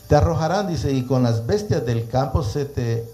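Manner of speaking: preacher reading aloud, phrase by phrase; scripture reading. Acted. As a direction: proclaim the verse to listeners. Reads scripture aloud to listeners.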